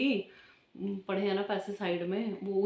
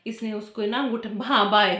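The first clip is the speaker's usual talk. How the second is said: ordinary talk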